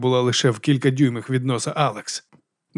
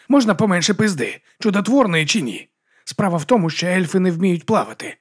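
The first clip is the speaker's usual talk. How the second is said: exasperated monk; 6 semitones higher than usual. Acted.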